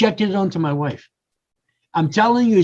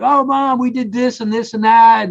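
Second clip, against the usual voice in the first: eager happy news; 3 semitones higher than usual. Retold or imitated. Telling mom happy news.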